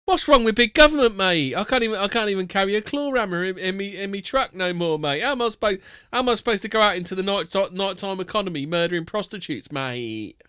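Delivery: lightly voiced Cockney bloke griping, mate on every line; a hint of an aggrieved geezer moaning about big government; Reverend Simon Sideways. Mocking the Reverend Simon Sideways as an indignant Cockney geezer. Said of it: "I'm starting to like this character less and less".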